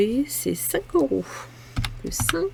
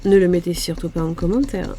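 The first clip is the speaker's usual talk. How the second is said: laughing; 2 semitones lower, 5 dB louder than usual. Real, not acted. Laughing plea to viewers.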